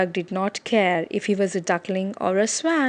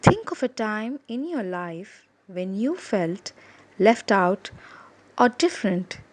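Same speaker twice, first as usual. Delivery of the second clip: put-on gentle teacher talking to kids; reading to children. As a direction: speak gently to the class.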